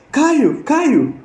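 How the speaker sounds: urgent calling. Retold or imitated. Teacher urgently calling Caio to check the list, high urgent call.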